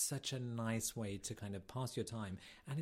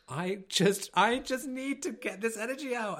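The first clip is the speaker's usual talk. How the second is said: higher, louder burst of restless energy; pent-up energy; 10 semitones higher, 10 dB louder, slower than usual. Retold or imitated. Back from a trip, bursting with energy. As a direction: burst out like you can't sit still. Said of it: "I was like".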